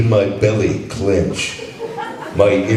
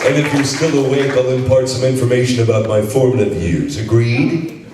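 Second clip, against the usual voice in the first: Duke Nukem voice; 4 semitones higher than usual. Acted. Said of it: "read that as the Duke for us".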